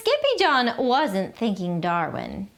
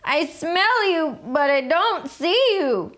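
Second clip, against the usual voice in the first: higher playful call; 7 semitones higher than usual. A narrator's reading. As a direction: call to hidden friends. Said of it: "called out".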